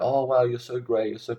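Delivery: high, gushing yes-man imitation; mock a fawning flatterer; put-on sycophantic praise; people pleaser. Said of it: "a people pleaser or a yes man".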